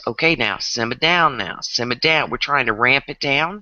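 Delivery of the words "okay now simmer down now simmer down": Southern simmer down. Retold or imitated. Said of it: "What we say in the South is".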